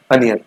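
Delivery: "अनियन" opening on uh, not O; correct pronunciation. Shown as a demonstration. Teacher correcting the O sound in onion, uh pronunciation. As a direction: say "अनियन" as uh-ni-yan. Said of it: "ओ नहीं".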